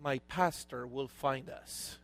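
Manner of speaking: low, soft, unhurried voice; chill, unbothered. Retold or imitated. Wealthy castaway reassures his panicking friend, chill and soft. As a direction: imitate someone totally calm, very quietly. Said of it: "The other guy is so chill".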